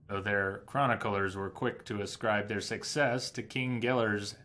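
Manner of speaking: measured storyteller's read with deliberate pauses; book narration. Acted. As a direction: read it out like a scholar's historical account. Reads an in-game book aloud.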